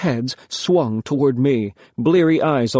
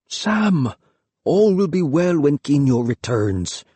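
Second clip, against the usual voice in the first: pleading; 2 semitones higher than usual. A narrator's reading. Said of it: "Father was pleading".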